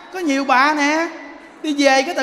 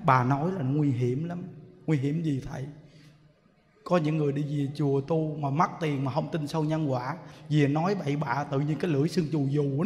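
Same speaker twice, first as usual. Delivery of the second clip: low, soft, grave monk scolding gently; stern monk's warning; 8 semitones lower, 7 dB quieter than usual. Retold or imitated. A monk quietly warning the grieving woman, low and grave. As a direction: lower the voice into a serious monk's warning.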